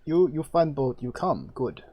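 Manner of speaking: lightly voiced priest in broken trade language; halting foreign priest. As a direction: speak as a curt, halting priest.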